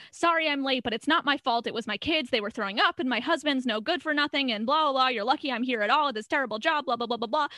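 breathless complaining waitress, lightly done; mock rant. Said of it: "nonstop rant".

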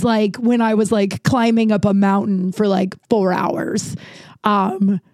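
stuffy, congested voice; blocked nose. Real, not acted. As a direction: talk through a blocked nose. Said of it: "not being able to breathe".

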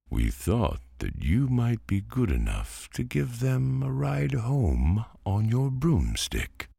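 high, courteous pumpkin voice; polite pumpkin. A narrator's reading. Pumpkin asks the witch for a ride, high polite voice. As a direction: ask the favour sweetly and high.

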